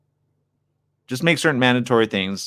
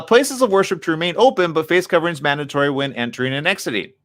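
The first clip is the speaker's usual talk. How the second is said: reading aloud; 6 semitones higher than usual. Real, not acted. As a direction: read the article out, slightly raised voice.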